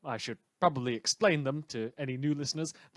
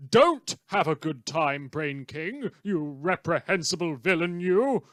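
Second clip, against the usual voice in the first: mock scolding; 3 semitones higher, 6 dB louder than usual. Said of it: "I'm being friendly with a villain".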